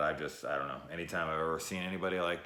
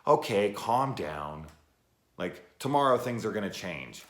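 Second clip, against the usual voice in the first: mock placating mom; 3 semitones higher, 6 dB louder than usual. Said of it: "And she's like".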